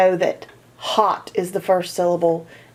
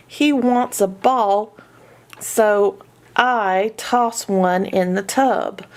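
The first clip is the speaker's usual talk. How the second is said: put-on reading to children. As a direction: read it like to a young learner. Reads a children's story aloud.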